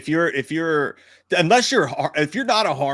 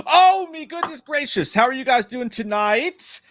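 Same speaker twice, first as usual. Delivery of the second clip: much higher, slow showman greeting; hammed-up host; 10 semitones higher, 4 dB louder, slower than usual. Host welcomes the audience back in a high, slow hammed-up voice. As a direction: greet the crowd like a hokey host. Switches to show announcement.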